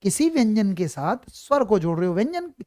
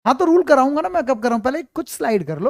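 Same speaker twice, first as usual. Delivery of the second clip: exasperated outburst; 4 semitones higher, 4 dB louder than usual. Real, not acted. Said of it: "student asked for rules".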